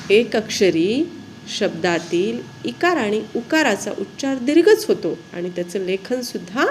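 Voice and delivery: usual speaking voice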